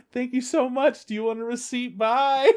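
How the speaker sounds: very high, sing-song polite voice; chirpy customer service. Retold or imitated. Coworker immediately gets up for visitor, chirpy customer service. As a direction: imitate an instant switch to professional sweetness.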